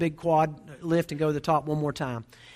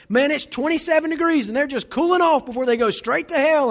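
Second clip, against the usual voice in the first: high, loud heckling dude; loud dude outburst; 9 semitones higher, 6 dB louder than usual. Retold or imitated. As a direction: call it out like a blunt, rowdy dude. Dude's second outburst, retold.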